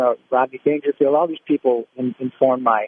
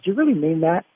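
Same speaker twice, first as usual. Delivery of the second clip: a hint of Orson Welles grumbling; lightly voiced gruff star refusing a note; grumbling back at the director; mock grumpy Orson. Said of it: "And he says".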